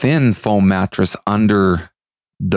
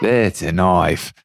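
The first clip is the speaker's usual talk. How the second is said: Crocodile Dundee; much slower than usual. Retold or imitated. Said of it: "He's like".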